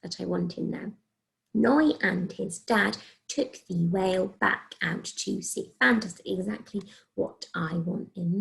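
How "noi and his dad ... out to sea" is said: slow, word-by-word reading; careful read-through. Shown as a demonstration. Teacher double-checking her written sentence, read carefully. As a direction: read the sentence aloud slowly and evenly.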